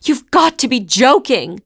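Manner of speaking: high, loud disbelieving outburst; exasperated. A narrator's reading. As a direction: throw up your hands at it. Anya exasperated by the cow.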